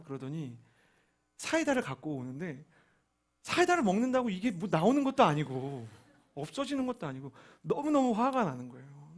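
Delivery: ordinary talk, nothing marked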